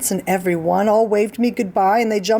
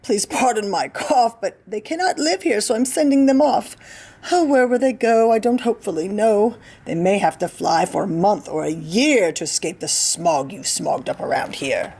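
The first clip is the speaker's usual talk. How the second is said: worried little creature, apologetic; Lorax voice. Acted. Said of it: "said the Lorax".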